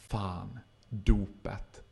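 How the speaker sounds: low, hushed dread; dämpad förfäran. Acted. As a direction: let it sink in, very softly. Acts out his dawning dread. (lågt och tyst förfärad)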